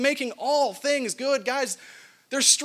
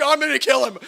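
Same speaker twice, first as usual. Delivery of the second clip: mock exasperation; 4 semitones higher, 6 dB louder, faster than usual. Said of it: "my response was like".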